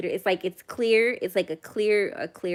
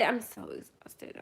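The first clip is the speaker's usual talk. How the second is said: soft, slow, worn-out sigh of a line; quiet exhausted; 8 dB quieter, slower than usual. Real, not acted. Streamer after yelling, softly exhausted repeat. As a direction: drop right down and let the tiredness sag. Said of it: "I'm sorry for yelling".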